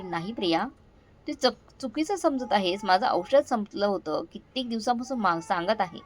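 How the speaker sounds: a mild hint of fear, faltering; trembling, stammering. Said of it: "मी थरथरत, अडखळत म्हणाली".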